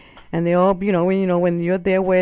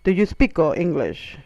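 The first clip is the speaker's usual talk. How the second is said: laboured question with an O tacked on; talking to a foreigner. Retold or imitated. Locals addressing a foreigner, mildly laboured. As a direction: repeat it for someone who barely understands. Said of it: "the way they talk to you".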